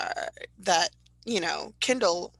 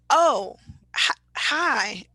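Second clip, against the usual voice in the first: startled greeting; 5 semitones higher, 6 dB louder, much slower than usual. Retold or imitated. Greeting mom on speakerphone.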